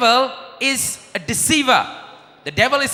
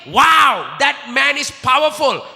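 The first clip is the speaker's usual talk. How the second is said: awed admirer; 4 semitones higher, slower than usual. Retold or imitated. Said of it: "don't ever think".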